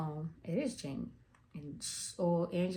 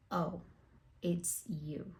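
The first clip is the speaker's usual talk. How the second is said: disappointed; much slower than usual. Retold or imitated. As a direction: drop to a near whisper, acting deflated. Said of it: "very disappointed. So she literally says".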